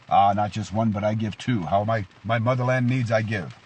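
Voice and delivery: loud, proud mock Russian accent; proud Russian commander. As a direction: answer boldly like a cheesy Russian soldier. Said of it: "cheesy Russian accent".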